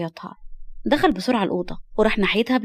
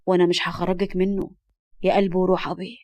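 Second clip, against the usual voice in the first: lightly lowered, affectionate voice; tender; 2 semitones lower than usual. Acted. Man stroking a little girl's hair, tender. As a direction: reassure her gently. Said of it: "مسح على شعرها بحنان".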